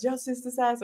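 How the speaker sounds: quietly imitated catchphrase. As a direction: mimic his catchphrase lightly. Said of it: "every time I join the chat, he says".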